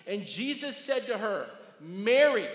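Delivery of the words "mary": calls the name out loud; loud calling out. Acted. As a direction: call her name across the garden. Jesus calling Mary by name.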